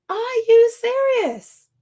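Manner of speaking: now let the outrage out; outraged disbelief. Retold or imitated. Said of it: "And it's like".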